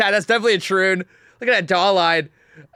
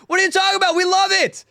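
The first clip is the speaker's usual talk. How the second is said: higher, incredulous mock reply; mock Venezuelans; 12 semitones higher, 3 dB louder, faster than usual. Streamer voices Venezuelans answering protesters, incredulous and higher. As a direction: toss it back like it's obvious. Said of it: "all the Venezuelans are like".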